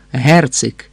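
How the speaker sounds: "Герцик" hard, stress on the first syllable; correct stress demo. Shown as a demonstration. Chevalier repeating for the count: hard first-stressed "Герцик". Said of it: "наголос на першому складі".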